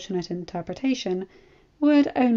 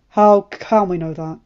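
concerned; 9 dB louder than usual. A narrator's reading. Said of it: "his voice full of concern".

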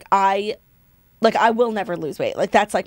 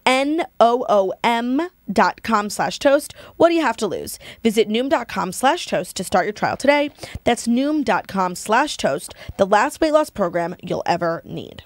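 slow, deliberate ad read; measured promo voice, drawing out the tagline; sponsor ad sign-off; slower than usual. Acted. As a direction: spell out the web address slowly and clearly. Closes sponsor ad.

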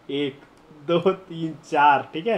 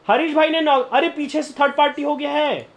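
high, urgent callouts; excited shout; 9 semitones higher than usual. Real, not acted. Streamer yelling to his squad as enemies third-party, urgent high callouts. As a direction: yell the alarm as the fight breaks out. Teammates getting knocked in fight.

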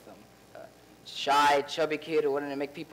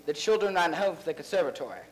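English accent test. Shown as a demonstration. Actor, asked to prove his English accent, says it. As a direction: test sentence said in the fake English accent, "conservatory" ending in "tory".

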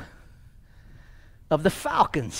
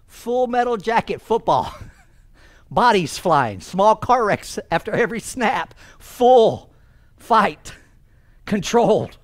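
punchy, loud sports hype; hyped-up emphasis; 5 semitones higher, 5 dB louder, slower than usual. Retold or imitated. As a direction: hit each phrase hard, with pauses between. Hyping the violence of American football.

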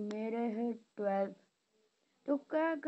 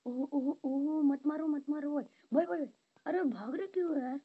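frantic pleading; 5 semitones higher, 3 dB louder than usual. Real, not acted. Pleading with enemy mid-fight.

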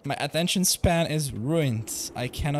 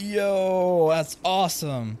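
imitating a cheer at the credits, a bit louder; mock shouting; 4 semitones higher, 4 dB louder, much slower than usual. Streamer imagines cheering as the movie ends, a mock loud shout. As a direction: pretend cinema shout of joy. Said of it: "I'll start shouting like".

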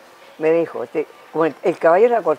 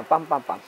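three soft, even vocal beats; imitated hoofbeats; 2 semitones lower, 4 dB quieter than usual. Shown as a demonstration. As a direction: tap out a gallop rhythm with the voice. Imitates three-beat gallop.

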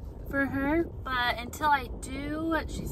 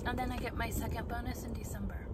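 whispering; 8 dB quieter, faster than usual. Real, not acted. Lowered voice about money.

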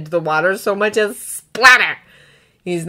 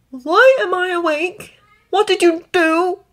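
high, measured questioning; wry; 10 semitones higher, 4 dB louder than usual. A narrator's reading. Newly woken dragon asking his brother, wry. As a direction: question them wryly from up high. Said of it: "it is somehow very wry".

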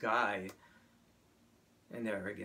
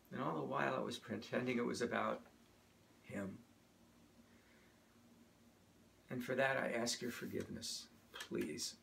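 humble confession; 6 dB quieter than usual. Real, not acted. Confesses and asks congregation's forgiveness.

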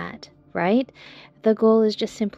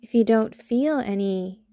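calm body-scan guide with long pauses; unhurried meditation voice, leaving space between phrases; guided meditation. Acted. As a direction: talk a listener gently through a body scan, pausing often.

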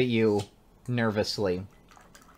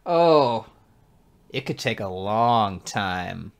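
drawn-out, teasing innuendo; slow, loaded come-on; suggestive flirting; slower than usual. Acted. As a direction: stretch it out slowly with a wink in the voice. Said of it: "And he winks at you".

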